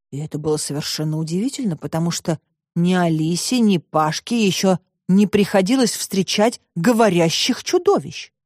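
usual speaking voice

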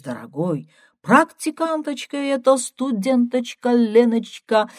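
put-on joking Georgian accent, playful; a light, hammed-up Georgian accent. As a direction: son jokes in a Georgian accent to calm his mother. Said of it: "сказал с грузинским акцентом".

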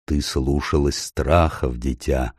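low, soft and slow; gentle rebuke from a great lion; deep lion voice. Acted. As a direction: Aslan gently chides the frightened girl. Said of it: "произнёс Аслан".

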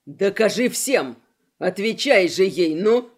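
urging Gora to answer the call; urgent shout. Acted. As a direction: shove him to answer with your voice. Pushing Gora mid-fight.

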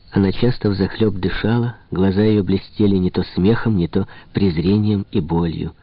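ordinary delivery

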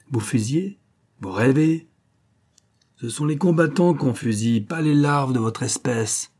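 mock the very idea with lifted pitch; scornful disbelief. Officer scorning a prisoner who asks to be shot, contemptuous.

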